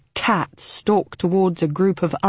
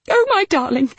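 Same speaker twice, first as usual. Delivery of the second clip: tender repetition; 10 semitones higher, 4 dB louder than usual. Acted. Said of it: "Mitzi was saying over and over again".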